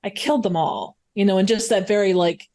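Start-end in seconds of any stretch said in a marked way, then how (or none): 0.0-1.0 low, understated matter-of-fact statement; deadpan. Shown as a demonstration. Suggesting how the actor could read a confession, deadpan. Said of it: "a deadpan, like, just a".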